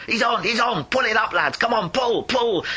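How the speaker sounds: rally the lads to pull; excited hauling call. Acted. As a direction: miners cheering him up the shaft. Miners hauling platform up.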